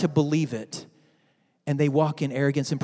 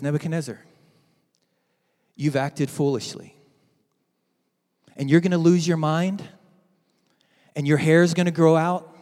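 voice from heaven; 4 semitones lower than usual. Retold or imitated. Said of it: "A voice comes from heaven".

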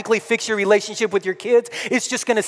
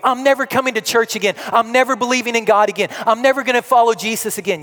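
mock defiant vow; 3 semitones higher, 3 dB louder, faster than usual. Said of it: "I've sat down with people".

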